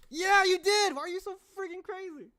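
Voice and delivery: high-pitched incredulous retort; exasperated outburst. Acted. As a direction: start loud and high, then ease off the volume. Exasperated character in acted take.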